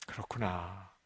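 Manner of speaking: low, soft dawning realization; acted hushed moment of understanding; quiet realization. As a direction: murmur it to yourself as it sinks in.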